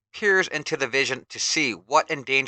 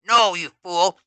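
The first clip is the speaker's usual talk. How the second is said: much higher, louder villain snap; Skeletor scolding; 7 semitones higher, 10 dB louder than usual. Acted. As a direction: scold the minion harshly. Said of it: "scolds Skeletor".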